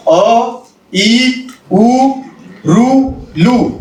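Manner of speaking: each short vowel said crisp and brief, अ, इ, उ, ऋ, लू; short vowels recited. Shown as a demonstration. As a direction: clip every vowel short, ऋ लू drawn slowly. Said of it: "पहा, मी repeat करतो". (ऱ्हस्व स्वर आखूड उच्चारात)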